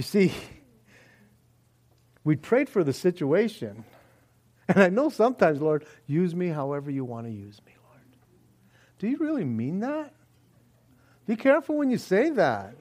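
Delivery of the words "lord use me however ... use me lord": soft, breathy whispered plea; whispered prayer. Pretend. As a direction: pray it under your breath. Pious prayer quoted.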